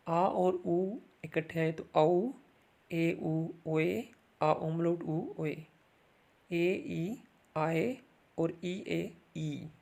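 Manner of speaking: very slow, spelled-out vowel sounds; slow revision. Shown as a demonstration. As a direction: drag each sound out for students. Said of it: "revision of vowel sounds". (बहुत धीरे-धीरे स्वर दोहराना)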